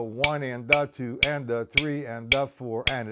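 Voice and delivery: "one and the two and the three" counted with a pulse on every other word; accent every other note. Shown as a demonstration. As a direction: lean on alternate words in "one and the two and the three". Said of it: "that's my accent".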